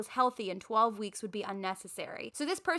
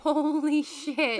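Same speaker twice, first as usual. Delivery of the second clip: shocked and laughing; 5 semitones higher, 5 dB louder, much slower than usual. Real, not acted. Shocked by parent email.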